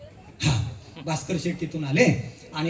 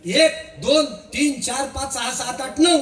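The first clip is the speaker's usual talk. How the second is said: higher, brisk head count; the smart one counting his friends, higher; confident counting; 5 semitones higher than usual. Acted. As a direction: count them off like you know better. Clever one recounts the group.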